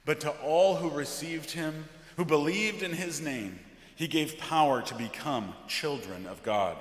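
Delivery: measured, weighty liturgical reading; solemn scripture reading. Acted. Pastor reading John's prologue from the pulpit, solemn.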